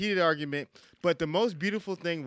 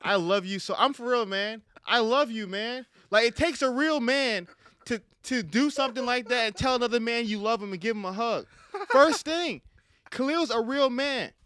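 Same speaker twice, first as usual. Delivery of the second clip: mock tearful tribute; 5 semitones higher than usual. Podcast host mock-sobbing his love to Khalil. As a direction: voice cracking high, hammed-up crying praise. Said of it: "Put that violin".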